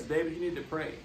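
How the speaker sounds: imitating a light Jamaican accent; gentle Jamaican nurse, lightly put on. Caregiver nurse urging him again to pray, light Jamaican accent. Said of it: "I tried to do the accent".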